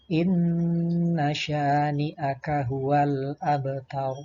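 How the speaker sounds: slow, sustained recitation with long held vowels; Qur'an recitation. Shown as a demonstration. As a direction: recite it slowly as a model for pupils. Contoh bacaan ayat. (tilawah pelan dengan bacaan panjang)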